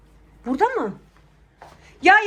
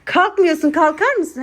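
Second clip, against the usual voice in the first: whiny mock cry; 4 dB louder than usual. Mum whines in despair.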